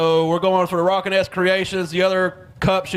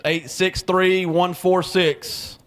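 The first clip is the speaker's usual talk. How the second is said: slow repeat; much slower than usual. Real, not acted. Raffle number repeated slowly.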